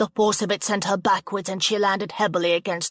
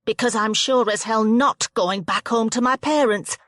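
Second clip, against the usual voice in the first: defiant threat; 3 semitones higher, 3 dB louder than usual. Acted. Rianne threatens Jo angrily.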